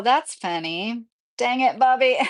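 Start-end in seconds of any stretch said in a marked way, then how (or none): 1.4-2.2 lightly voiced cartoon dad catchphrase; a slightly higher, playful mock scolding; Hank Hill. Quoting the show after a viewer's comparison, light Hank Hill. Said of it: "I sound like Hank Hill".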